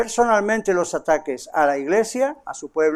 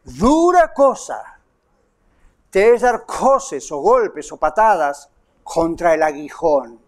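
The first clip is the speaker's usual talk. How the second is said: stern divine warning; 3 semitones lower, slower than usual. Retold or imitated. The Lord warning Saul against kicking the goad, slow and grave. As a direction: warn him slowly and gravely. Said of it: "Y dice".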